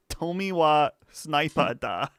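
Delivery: mock Japanese read-out; reading fake Japanese with a laugh. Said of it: "this fake Japanese".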